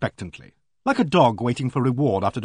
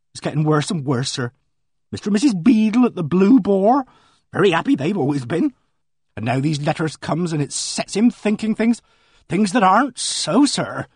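higher, earnest village housekeeper, worked up; a flustered countrywoman pouring out her news; voiced housekeeper; 4 semitones higher, 4 dB louder than usual. Housekeeper gossiping to the invalid gentleman, higher and earnest.

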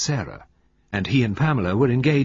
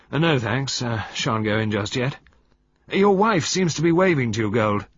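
rather grim; 3 semitones higher, 4 dB louder than usual. Acted. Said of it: "rather grimly".

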